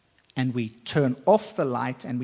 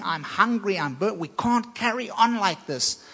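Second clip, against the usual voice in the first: crying out; 6 semitones higher than usual. Acted. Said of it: "the spirit man is crying out".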